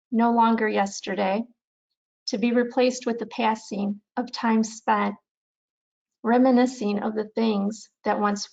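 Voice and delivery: measured recital with pauses between lines; unhurried poetry recitation, little drama; poem reading. Acted. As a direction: read your poem aloud, phrase by phrase. Reads own poem aloud.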